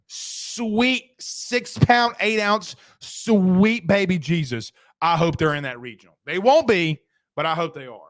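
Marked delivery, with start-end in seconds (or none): 0.1-4.7 slow, drawn-out movie-quote prayer; lightly hammed-up plea to baby Jesus; slow mock-fervent prayer.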